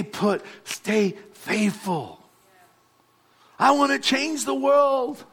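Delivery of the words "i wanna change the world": lightly voiced idealistic young dreamer, higher; a gentle send-up of youthful idealism; mock millennial. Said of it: "that's how we talk".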